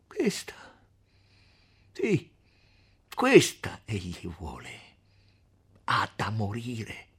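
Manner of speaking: acuto e forte all'inizio, poi lento e cupo; grido furioso. Acted. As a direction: grida puntando il dito, accusando. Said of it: "e gridò". (grido d'accusa, poi lento e minaccioso)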